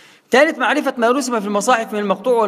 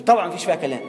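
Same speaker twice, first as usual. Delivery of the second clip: normal talking voice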